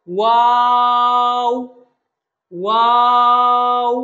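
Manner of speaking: ওয়াও loud, long, with rounded lips; rounded-lip letter. Shown as a demonstration. Teacher models the letter, ওয়াও rounded and drawn out. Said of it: "দুই ঠোঁট গোল করে".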